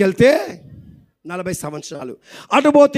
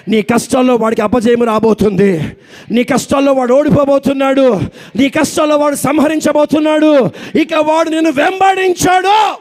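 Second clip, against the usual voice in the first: building sermon; 2 semitones higher than usual. Real, not acted. Preaching builds over music.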